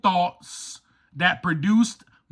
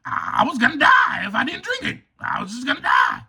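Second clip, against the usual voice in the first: mock excuse-making; 3 semitones higher than usual. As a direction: whine out the excuse, then shout it. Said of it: "I could be like".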